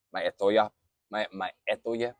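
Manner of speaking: peyote said backwards; backwards speech. Shown as a demonstration. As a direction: reverse the word and repeat it. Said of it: "doesn't matter which direction I speak it in".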